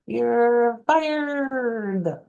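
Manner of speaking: high, rolled-R "You're fired"; boss from The Cat in the Hat. Retold or imitated. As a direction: fire them like the little boss. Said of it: "he says it like this".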